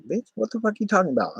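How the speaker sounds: high, affronted retort, replayed; retold indignant comeback. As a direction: act out an incredulous challenge. Acts out his quarrel with neighbor.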